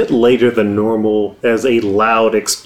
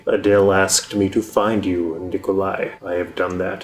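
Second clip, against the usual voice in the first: low, menacing tiger man; 3 semitones lower, 3 dB quieter, faster than usual. Acted. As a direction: speak like a looming beast.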